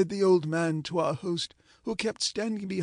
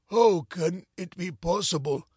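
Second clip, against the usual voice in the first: mildly doleful question; mournful; 2 semitones lower than usual. Acted. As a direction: ask with a touch of sorrow. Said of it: "said our friend mournfully".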